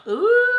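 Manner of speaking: high, loud, drawn-out "ooh". Real, not acted. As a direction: let out a high-pitched ooh. Reacting to numbing relief she describes.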